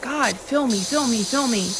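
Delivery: high-pitched imitation of a desperate prayer; pleading prayer. Woman imitating herself praying to God to fill her void, pleading. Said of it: "I'm praying to God".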